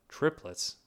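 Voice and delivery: high, loud echo of surprise; exclaiming. A narrator's reading. Woman repeating the doctor's startling news, exclaiming. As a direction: exclaim it back in astonishment. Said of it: "She was excla-, exclaiming".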